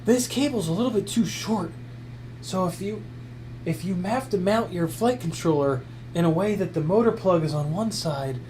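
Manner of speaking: a touch of an unhinged reviewer, mostly his own voice; lightly mock-crazy product review, barely changed; lunatic voice. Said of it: "more fun to talk like a lunatic".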